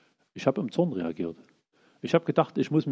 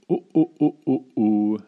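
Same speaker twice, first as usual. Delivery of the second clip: louder worried oh-ohs in another timbre; alarmed groans; 6 dB louder, slower than usual. Acted. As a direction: sound the alarm of someone who sees trouble coming. Nabal's wife realizes the danger. (besorgtes, lautes Oh-oh)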